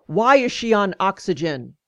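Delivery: retold demanding question; imitating a doctor's demand. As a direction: demand an answer, mildly forceful. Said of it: "and demanded".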